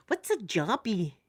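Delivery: slow, lightly imitated wee girl. Wee girl in restroom asking her mum, slow imitated child. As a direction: draw out the child's puzzled question. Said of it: "I hear a wee girl going".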